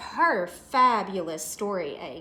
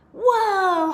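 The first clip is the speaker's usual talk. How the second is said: high, loud surprised gasp-word; startled whoa; 9 semitones higher, 8 dB louder than usual. Acted. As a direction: jump back in surprise. Hoppy startled by boing.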